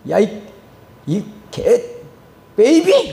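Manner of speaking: halting swearing that bursts out at the end; retold angry cursing. Angry passer-by cursing the street evangelist, mock outburst. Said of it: "막 난리가 나서".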